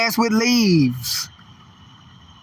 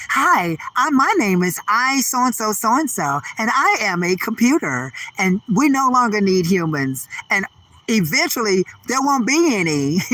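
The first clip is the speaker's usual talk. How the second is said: mock robot customer service. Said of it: "it's gonna be customer service now".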